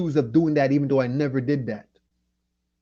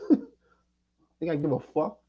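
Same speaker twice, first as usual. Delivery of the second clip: mocking laugh; 2 semitones higher, much slower than usual. Real, not acted. Mocking dare to a fighter.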